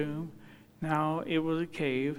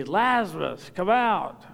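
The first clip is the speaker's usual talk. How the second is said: loud command, climbing higher on "come out"; loud cry; 4 semitones higher, 7 dB louder, slower than usual. Acted. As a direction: summon one man by name, loudly. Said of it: "So he had to say".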